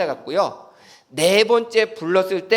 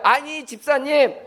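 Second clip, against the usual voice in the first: neighbor's advice; 4 semitones higher than usual. Retold or imitated. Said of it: "옆에 사람이 대신 깨달아서 대신 얘기해 주는 거야".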